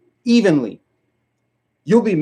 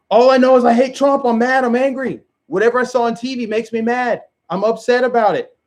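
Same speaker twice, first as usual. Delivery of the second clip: mock angry liberal; 5 semitones higher than usual. Mocking liberals who just hate Trump, in a higher whiny voice. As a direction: parody a mindless TV-fed rage.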